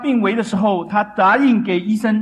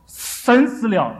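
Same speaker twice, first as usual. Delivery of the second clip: drawn-out, higher-pitched proclamation; retold grand boast; 4 semitones higher, much slower than usual. Preacher quotes a famous philosopher at his proudest, a grand slow boast. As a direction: declare it slowly, with proud swagger. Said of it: "他是多么的风光".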